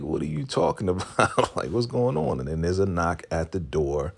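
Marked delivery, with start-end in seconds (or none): 0.0-2.4 high mock-innocent protest, a laugh breaking in; feigned bafflement. Andrew answering her threat, high mock bafflement. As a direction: play dumb in a raised voice.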